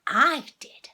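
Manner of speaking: loud triumphant exclaim. A narrator's reading. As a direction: exclaim it proudly. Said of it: "exclaimed Missus Jolly".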